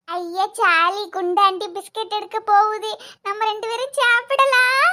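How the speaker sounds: put-on childish glee, drawn-out endings; five-year-old child. Child happy about biscuits coming, childlike. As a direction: cheer like a small kid promised a treat. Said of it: "அஞ்சு வயசு குழந்தைதான்".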